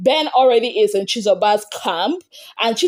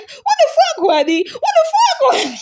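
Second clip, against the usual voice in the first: much higher, laughing through a mock outburst; mocking Handi. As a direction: squeal it out high while cracking up. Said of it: "She was like".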